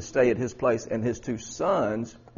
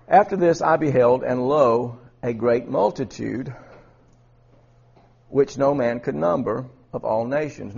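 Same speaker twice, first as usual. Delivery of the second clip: projected scripture reading, loud opening that settles; 5 dB louder than usual. Acted. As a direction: read the verse out to a congregation. Reads scripture aloud.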